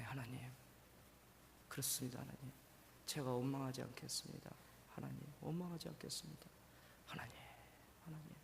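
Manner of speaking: soft prayer of surrender; quiet surrender. Acted. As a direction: yield gently to God.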